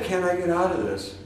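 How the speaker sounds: soft, resigned asking; quiet plea. Retold or imitated. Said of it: "And so I've said".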